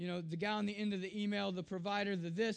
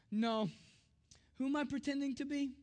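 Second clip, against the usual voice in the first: imitated little girl; 4 semitones higher than usual. Daughter corrects Daddy at bedtime.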